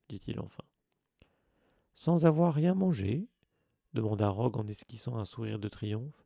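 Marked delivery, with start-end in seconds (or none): 1.9-3.3 higher, louder, slow gotcha; triumphant Snape. A narrator's reading. Snape catches Harry's lie before Dumbledore, triumphant. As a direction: savour catching him out.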